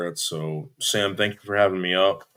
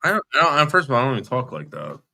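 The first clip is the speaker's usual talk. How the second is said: higher and louder, protesting; indignant denial; 4 semitones higher, 5 dB louder than usual. Real, not acted. Denying the accusation to the caller, indignant. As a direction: insist hotly it's not true. Arguing on a call.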